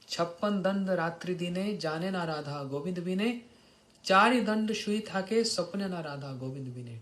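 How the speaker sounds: rhythmic devotional couplet; intoned Bengali verse; verse recitation. Acted. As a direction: recite it as scripture, line by line.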